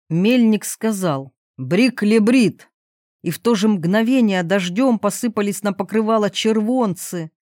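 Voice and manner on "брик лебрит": slow, emphatic magic words; magic incantation. A narrator's reading. Miller speaks to the wondrous donkey, magic incantation. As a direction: pronounce the spell slowly and deliberately.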